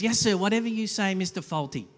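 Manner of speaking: obsequious. Retold or imitated. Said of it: "but he's".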